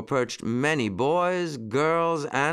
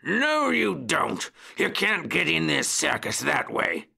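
guard's pitched-up, forceful cry; cried warning; 5 semitones higher than usual. A narrator's reading. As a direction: cry it out to chase them off. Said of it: "and cried".

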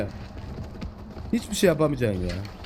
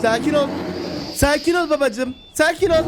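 soothing the animal; 9 semitones higher than usual. Real, not acted. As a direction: settle the beast down. Calming the tamed bear.

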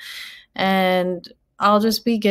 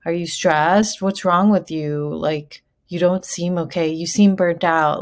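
pointed, louder mock interrogation; mock accusatory questions; 4 dB louder than usual. Imitating a nosy coworker's accusing questions. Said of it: "accusatory type questions".

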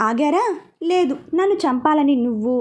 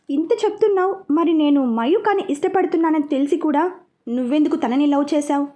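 angry question. Acted. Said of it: "అని అడిగాడు సుజిత్ కోపంగా".

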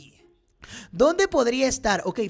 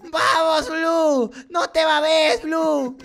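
raised-voice cheering; urging on; much slower than usual. Real, not acted. Gamer urging Blue to take his turn, cheering. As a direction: egg the character on with punchy calls.

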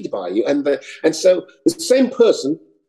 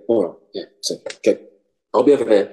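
English auditioner; 5 semitones lower, faster than usual. Acted. In character answering at audition.

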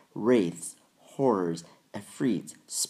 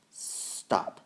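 whispered. A narrator's reading. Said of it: "said the witch".

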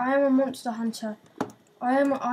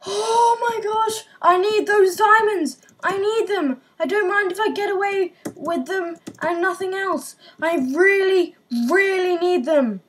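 distressed wail; 3 semitones higher than usual. Real, not acted. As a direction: whine it out like you might cry. Losing diamonds, near tears.

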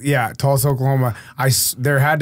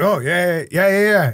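flustered agreeing; 5 semitones higher than usual. Retold or imitated. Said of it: "I had no idea what he said".

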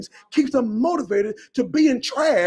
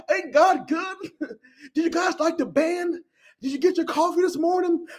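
mock cheesy pastor voice, higher; megachurch pastor; 5 semitones higher than usual. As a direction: smile through a shallow pastor welcome. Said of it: "the head man is standing there smiling".

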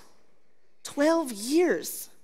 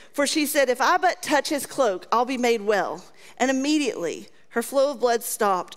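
scripture reading. Acted. Reads scripture aloud.

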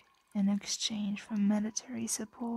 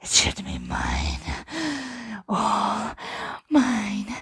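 possessive; 3 dB louder than usual. Acted. Dragon's greed surfaces.

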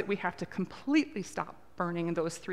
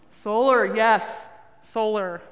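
calling out; 9 dB louder, much slower than usual. Real, not acted. Calling back audience answers.

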